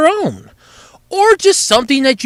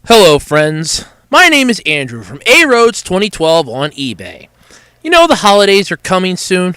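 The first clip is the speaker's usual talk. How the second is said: low sponsor voice; 4 semitones lower than usual. Acted. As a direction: read it like a lower-voiced ad guy. Sponsor read as himself.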